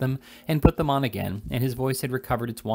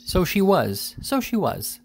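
dismayed realisation; 9 semitones higher, slower than usual. A narrator's reading.

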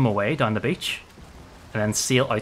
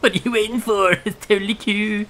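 loud, high coaxing shout with a laugh; baiting call; 6 semitones higher, 5 dB louder than usual. Real, not acted. Gamer luring enemies down the beach, loud taunting call. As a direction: goad them into chasing you.

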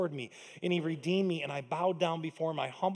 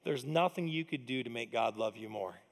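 hushed, weighty "nothing"; soft and low, a touch slower; 7 semitones lower, 7 dB quieter than usual. Shown as a demonstration. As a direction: drop your voice for the key truth. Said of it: "I want you to know a truth".

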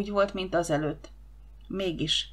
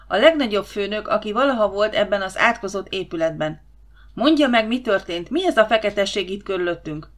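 dühös főnök; 5 dB louder than usual. Acted.

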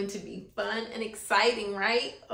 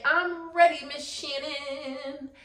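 modelled class response; 3 semitones higher, 4 dB louder than usual. Shown as a demonstration.

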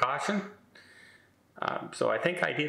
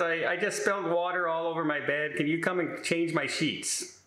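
mild roommate whine; 5 semitones higher than usual. Retold or imitated. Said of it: "She says".

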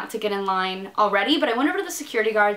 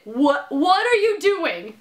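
inner scolding; 4 semitones higher, slower than usual. Retold or imitated. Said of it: "in my head, I was literally like".

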